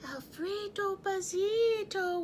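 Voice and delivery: soft, slow whispered name. A narrator's reading. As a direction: breathe the name in awe. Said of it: "whispered the crowd".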